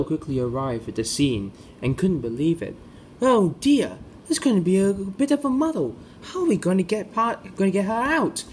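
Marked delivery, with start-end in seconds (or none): 3.2-8.4 worried engine. Acted. Belle arriving at the fire, higher worried voice. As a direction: fret over the muddle.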